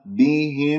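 بهم closing on a distinct, non-nasalised m; clear meem. Shown as a demonstration. Teacher models the plain meem, careful recitation. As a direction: finish بهم with lips cleanly shut on m. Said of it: "ميم مظهرة".

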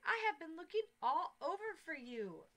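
relieved, calling across the crowd; cried out. Acted. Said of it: "the man cried".

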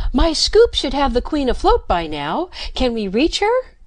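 high, loud shout into his ear; shouting over noise. A narrator's reading. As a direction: make yourself heard over the roaring beast. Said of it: "shouted in his ear".

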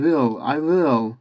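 will with a vowel between i and ı; model pronunciation of will. Shown as a demonstration. Teacher models the word for students, careful pronunciation of will. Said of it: "We ve I gibi okunur".

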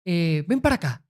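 lightly voiced Catalan accent; slight Catalan accent. Imagining the pirate hero dubbed, slight Catalan accent. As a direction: put on a hint of Catalan accent. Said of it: "con acento un poco catalán".

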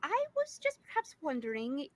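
lightly voiced demure lady; a hint of a flustered lady. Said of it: "a demure lady i-, is somewhat flustered".

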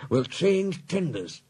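high Scottish voice, giving orders; urgent Scottish driver. Acted. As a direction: lay out the plan firmly in Scots.

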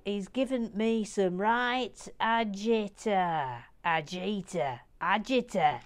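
put-on Yorkshire accent, drawn-out words. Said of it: "I think that's a Yorkshire word".

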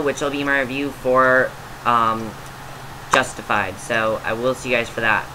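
teary, subdued voice after crying. Real, not acted. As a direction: talk on with a tear-choked voice. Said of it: "pardon me for getting teary-eyed".

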